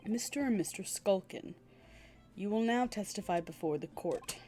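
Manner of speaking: low, measured judge voice; formal judge. Acted. Judge addresses the court and the witnesses, formal. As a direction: rule over the courtroom gravely.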